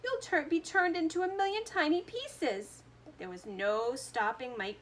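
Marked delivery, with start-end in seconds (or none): 0.0-2.8 high, loud pleading scream. A narrator's reading. Mother begging her son to stop, high scream. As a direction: beg him to come back. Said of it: "screamed Missus T V".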